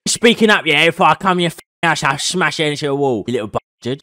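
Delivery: white guy impression. Streamer shows a challenged stranger his white impression, mock-aggressive caricature. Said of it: "Do a white impression then".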